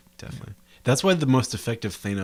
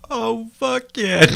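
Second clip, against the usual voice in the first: long, high drawn-out cheer; elated cheer; 12 semitones higher, 4 dB louder, much slower than usual. Real, not acted. Co-host celebrating the writer's return, elated cheer.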